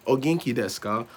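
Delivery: lightly mocking beginner foreigner; stiff foreigner textbook Japanese. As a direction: sound out each phrase like a textbook drill. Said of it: "foreigners speaking like that".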